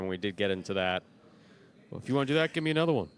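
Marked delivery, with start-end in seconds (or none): 1.9-3.1 higher-pitched mock defiance; defiant retort. Player daring the referee to fine him, mock defiant.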